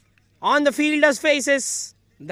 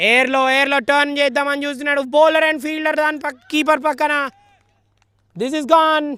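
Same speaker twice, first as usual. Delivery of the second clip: fast, loud and high as the wicket falls; excited cricket commentary; 3 semitones higher, 5 dB louder than usual. Real, not acted. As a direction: call the wicket as it happens. Wicket falling, live commentary.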